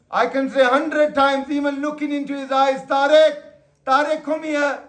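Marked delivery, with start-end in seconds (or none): 2.8-4.8 calling out by name. Shown as a demonstration. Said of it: "He's not bothered".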